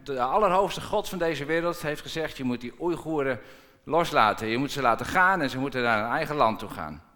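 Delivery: proclaiming loudly. Pretend. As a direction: announce it like God's own command. Harry's message to the president.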